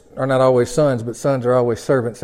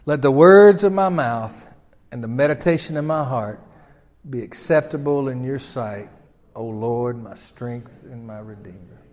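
prayer recited together. Shown as a demonstration. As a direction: lead the congregation in prayer. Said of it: "Say it with me".

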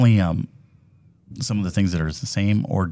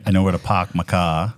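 louder playful imitation of a Boston accent; mock Boston accent; 5 dB louder than usual. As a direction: tease the Boston accent, dropping the r's. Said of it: "Besides the two different accents".

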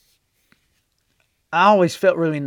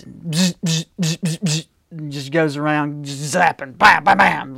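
wand zapping noises. Retold or imitated. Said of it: "magical wand like Harry Potter".

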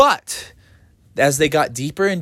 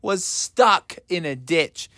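high wailing oh no; panicked wail. Acted. The family wails as the bus slides into the ditch. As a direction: cry out as you slide.

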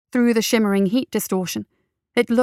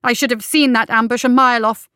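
louder, angry at herself; self-reproach; 2 semitones higher, 4 dB louder than usual. Acted. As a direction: snap it, blaming herself. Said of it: "she snapped".

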